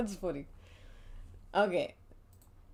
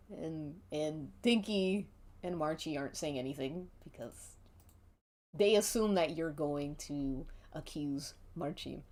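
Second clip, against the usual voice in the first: ordinary delivery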